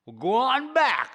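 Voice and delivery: put-on high old fisherman hollering; Charlie yelling. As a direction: bark him off. Charlie yells at serpent.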